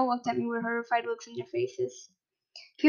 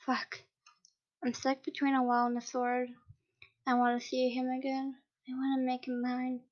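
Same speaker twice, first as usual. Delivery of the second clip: quiet longing; 6 dB quieter than usual. Acted.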